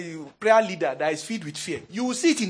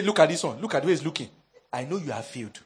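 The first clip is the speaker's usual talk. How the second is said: lower, sneering lecturer; lightly voiced menacing teacher; wicked lecturer; 5 semitones lower, faster than usual. Wicked lecturer singling out a student in class, lightly voiced menace. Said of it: "That's the way he talks".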